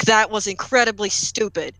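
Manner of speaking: lightly voiced stern dad. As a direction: deliver a restrained fatherly scolding. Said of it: "he uses the dad tone".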